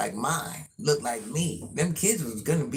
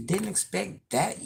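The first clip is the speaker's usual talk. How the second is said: a little shock; 3 semitones higher, 3 dB quieter than usual. Real, not acted. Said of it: "A little shock".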